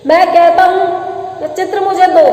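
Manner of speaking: mildly angry, pressing command; stern demand. Acted. Husband demands the picture from his departing wife, sternly.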